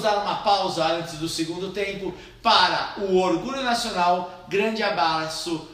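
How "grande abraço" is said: slow, words breaking into laughter; laughing too hard to read. Real, not acted. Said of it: "laughs while reading".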